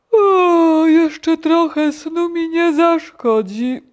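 loud, high, slow yawn-talk; hammed-up drowsy wail; sleepy toad. A narrator's reading. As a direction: yawn the whole line out. Sleepy toad wants more sleep.

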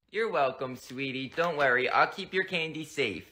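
put-on tuck the kid in sweetly; lightly voiced mom. Mom voice, low and soft.

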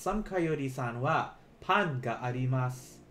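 slow, careful model sentence; said slowly. Shown as a demonstration. Teacher slowing down for students to repeat. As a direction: stretch "Sam Coyote-san wa pan ga arimasu" out word by word. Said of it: "let me say this slowly".

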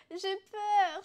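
high, loud mock whimper; whiny fear. Annabella whining to her husband as she leaves, high and hammed-up. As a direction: whine it like a scared doll. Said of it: "chouina Annabella".

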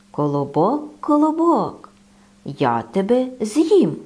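lightly voiced hungry bear; big bear. Bear threatens the bun. (ведмідь погрожує колобкові)

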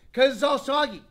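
a mock kid complaining to his parent; whiny kid voice. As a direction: pout it out like a fussy kid. Kid whining about soggy cereal.

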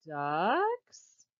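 duck puppet voice. Acted. Duck puppet calls again.

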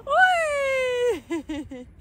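high whooping laughter; laughing whoop. Real, not acted. Joyful whooping while running.

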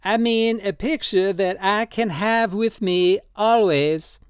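put-on high, slow, pleading old man's voice; old tattooist Drioli, drunk and pleading. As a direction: coax him tenderly, in wine.

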